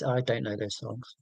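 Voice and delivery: soft, deflated confession; deadpan admission. Real, not acted. Drops the pretence, admits ignorance.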